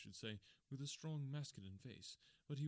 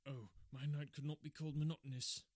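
overwrought; 3 semitones higher, 6 dB louder than usual. A narrator's reading. Patient on edge of hysteria.

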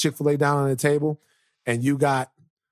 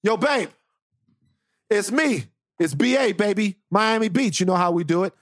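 higher, swaggering Brian voice; imitating Brian; 4 semitones higher than usual. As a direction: play the cocky returning boyfriend, a bit higher. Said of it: "and he goes".

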